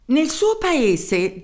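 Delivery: high, slow German-accented voice with a hint of annoyance; a tiny German professor losing patience; irked German accent. Professor irritated at the mayor, German-accented voice. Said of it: "disse indispettito il professore".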